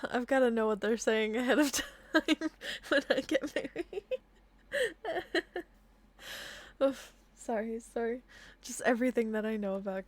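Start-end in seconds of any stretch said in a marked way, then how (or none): 0.1-4.0 laughing aside. Real, not acted.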